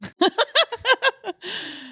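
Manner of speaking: sudden bright laugh; high burst of laughter. Real, not acted. Laughing at the ASMR joke.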